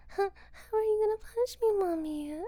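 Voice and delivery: put-on high, pleading little-boy voice, teasing; mock little boy. Mother mimicking her boy's scared question, high and mocking. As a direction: put on his whiny voice to mock him.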